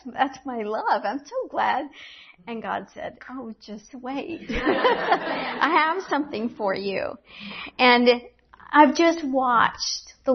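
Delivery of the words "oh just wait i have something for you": soft, slow, chuckling tease; voicing God as a playful, laughing tease; playful laughing quote. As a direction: tease gently through a laugh. Voicing God's playful reply.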